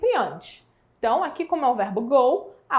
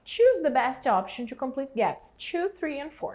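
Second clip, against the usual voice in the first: measured teacher reading; slow exercise read. Shown as a demonstration. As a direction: read the question slowly and clearly to the class. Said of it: "teacher reads the exercise aloud".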